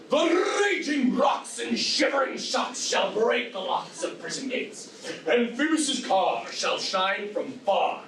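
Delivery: booming tyrant ranting; lofty ranting verse. Acted. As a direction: rant it like Hercules. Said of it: "This was lofty".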